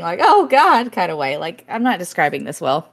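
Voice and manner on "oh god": mock-scandalized gasp of words, higher pitched; playfully prim shock; pearl-clutching. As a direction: clutch your pearls in mild mock distress. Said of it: "in a pearl clutching".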